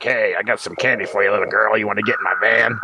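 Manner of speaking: lightly voiced creepy used car salesman clown. Shown as a demonstration. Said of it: "what's your pedophile clown voice".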